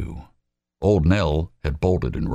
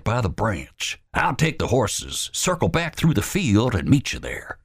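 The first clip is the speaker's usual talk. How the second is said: Wallace's voice; 10 semitones higher than usual. Acted. Wallace putting Albert in charge, commanding. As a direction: lay out the orders firmly.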